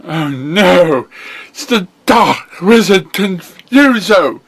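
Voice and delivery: bright, high cartoon pony hero. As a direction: play the chipper young pony hero.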